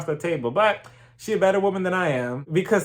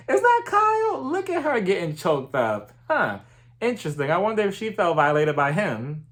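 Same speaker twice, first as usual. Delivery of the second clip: mock surprise; 3 semitones higher than usual. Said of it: "I was like".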